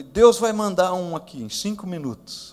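loud, high and firm declaration; very serious. Retold or imitated. Pastor to the doctors, firmly declaring God will send help. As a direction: say it with unshakable certainty. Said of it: "falei bem sério para os médicos".

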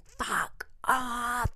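a mild re-enacted shout at the car; retold scream. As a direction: imitate the angry man's scream lightly. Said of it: "Like, screaming".

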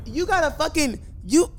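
angry yelling. Real, not acted. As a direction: shout at him in disbelief. Yelling at someone about a webcam.

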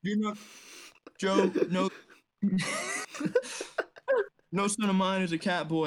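hint of a folksy president telling a story; Joe Biden impression. Doing a Joe Biden impression for friends, lightly voiced. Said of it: "Do your Joe Biden impression".

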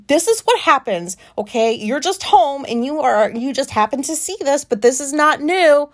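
retold yelling. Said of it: "I'm yelling at her just like I am right now".

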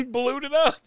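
high, laughing repeat of her words; laughing echo. Retold or imitated. Friend laughing back Tammy's phrase in a high voice.

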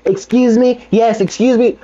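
high-pitched imitation of a demanding guest; older lady. Older lady asking servers for a cup, high mock demand. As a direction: mimic her calling for attention up high. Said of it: "older lady that asked for the cup".

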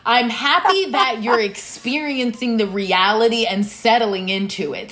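slow, laughing explanation; amused, unhurried reply to a friend. Retold or imitated. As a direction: laugh through it, drawing it out. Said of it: "And I was like".

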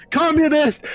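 high, shouted robot accusation; screeching interrogator robot. Acted. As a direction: shriek the one word like a manic warbot. Warbot screams at a suspect.

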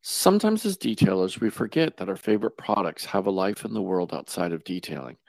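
monotone ad read. Acted. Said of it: "monotone voice?".

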